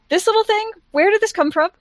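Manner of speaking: in-character question. Acted. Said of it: "So I'm just like".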